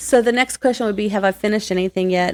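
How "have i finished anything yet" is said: normal talking voice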